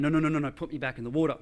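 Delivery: quick string of refusals; mildly urgent, fast-paced objection; retold urgent protest. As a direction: protest rapidly, cutting off any argument. Retold protest to being lifted.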